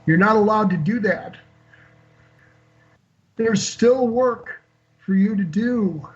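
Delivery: a hint of a tender, melodious feminine voice; gentle divine voice. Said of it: "immensely feminine and melodious".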